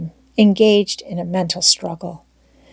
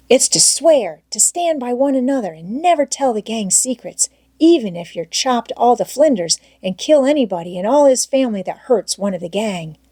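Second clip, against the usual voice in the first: put-on higher, eager boy's voice coaxing his friend; Tom Sawyer's voice; 4 semitones higher than usual. Tom coaxing Huck to stay, eager boyish voice. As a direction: pitch up into a keen young boy.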